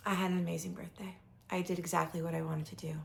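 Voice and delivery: fast hushed whisper. Real, not acted. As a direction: breathe it out in a whisper. Whispered after first telling.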